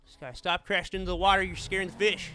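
loud mocking jab at a crashing rival; loud taunt. Real, not acted. Streamer teasing a rival who keeps crashing, loud. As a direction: call it out across the lobby, teasing.

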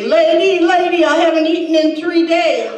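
imitating a homeless man yelling for change; retold beggar's yell. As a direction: call out "lady, lady" like a beggar pleading. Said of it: "he used to yell at me and say".

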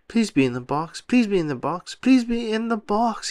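a nervous mantra rising in pitch; begging under his breath, pitch climbing; anxious pleading. A narrator's reading. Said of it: "he thought aloud".

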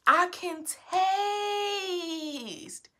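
slow, drawn-out tearful joy; overjoyed crying. Real, not acted. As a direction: let it break with happy tears. Taste returns after weeks.

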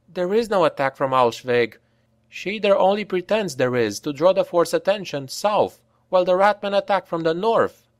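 a lightly voiced woman explaining the trick; Franka's voice. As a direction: jump in ahead of Reiner, sure of herself.

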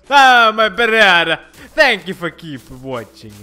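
lightly hammed-up Italian host; silly Italian accent. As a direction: play the Italian offering espresso. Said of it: "But I'm a true Italian".

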